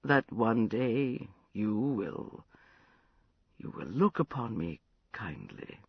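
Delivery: put-on drunken, maudlin confession. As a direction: loose and sorry for himself. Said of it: "Prince, you sound terribly drunk".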